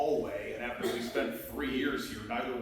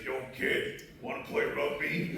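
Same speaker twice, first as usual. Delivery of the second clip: lightly imitated Yonkers accent, casual; a quick, understated Yonkers street voice. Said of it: "in a Yonkers accent".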